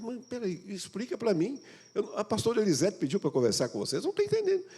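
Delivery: high, sheepish husband asking mom; husband's voice. Retold or imitated. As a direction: voice him high and confused.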